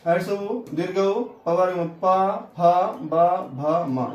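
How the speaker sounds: teacher excitedly recaps the letters; eager recap. Shown as a demonstration. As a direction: cheerfully rattle off the letters. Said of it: "कितनी आसान है".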